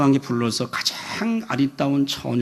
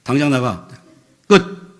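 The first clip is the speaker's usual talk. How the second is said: fast scolding ending in a loud cutoff; brusque, heated order; angry dismissal; 5 dB louder than usual. Retold or imitated. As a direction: re-enact throwing someone out, finishing hard. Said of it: "화를 내었어요".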